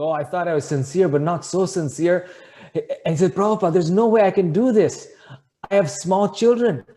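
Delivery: high, loud, half-laughing plea; shocked protest. Retold or imitated. Devotee refusing the guru's request, shocked protest. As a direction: imitate a flustered man pleading his way out. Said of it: "the man is shocked".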